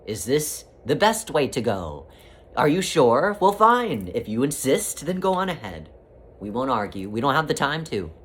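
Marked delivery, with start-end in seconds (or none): 0.1-5.9 gentle questioning. Retold or imitated. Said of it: "It will simply ask".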